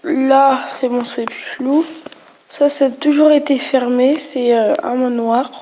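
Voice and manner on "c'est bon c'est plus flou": whispering. Real, not acted. Relieved aside at map image.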